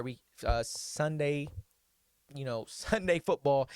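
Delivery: stumbling, restarting words; stuttering. Real, not acted. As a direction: trip over the words. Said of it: "I'm stuttering right now".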